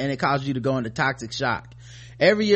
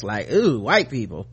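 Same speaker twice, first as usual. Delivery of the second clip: disgust; 4 semitones lower than usual. Retold or imitated. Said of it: "it was so much disgust".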